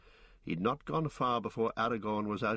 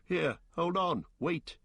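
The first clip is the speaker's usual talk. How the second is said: calling out; 8 semitones higher than usual. Acted. Aragorn calling after them.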